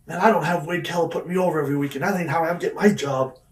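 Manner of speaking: half-hearted re-enactment of yelling; retold screaming rant. Wrestler shooting on Sean in a staged fight, toned-down retold rant. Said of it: "I start screaming shit like".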